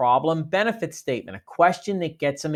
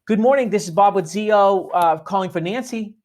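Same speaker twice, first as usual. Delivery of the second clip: rushed greeting; 4 semitones higher than usual. Shown as a demonstration. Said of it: "if we say this greeting too quickly".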